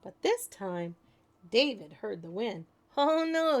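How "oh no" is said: laughing. A narrator's reading. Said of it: "he laughed".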